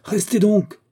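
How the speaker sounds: loud command pitched far up; insistent, ringing royal shout; thundering cry. A narrator's reading. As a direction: call out forcefully to halt someone. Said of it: "cria Charles douze d'une voix tonnante".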